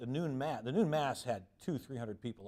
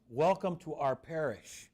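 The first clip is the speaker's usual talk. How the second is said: slow, louder formal welcome; lightly voiced parishioner welcome; polite greeting; 3 semitones higher, 6 dB louder, slower than usual. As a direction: greet as the host who owns the house.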